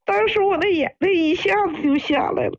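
choked-up, tearful telling. Real, not acted. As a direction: let the tears into your voice. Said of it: "阿姨，您别哭了". (带着哭腔说)

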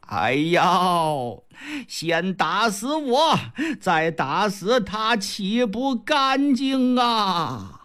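put-on slow, breathless old grandmother; trembling old lady. Grandmother rebuking her son, slow and breathless. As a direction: drag it out like a frail old woman. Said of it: "老太太颤颤巍巍呀".

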